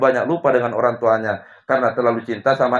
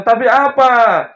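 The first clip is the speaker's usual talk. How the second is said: sharp question; 11 semitones higher, 8 dB louder, slower than usual. Retold or imitated.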